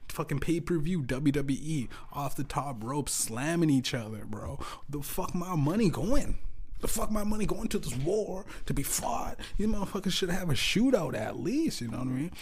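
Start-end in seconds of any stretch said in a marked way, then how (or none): 4.9-11.8 angry rant. Real, not acted. Ranting about tax money.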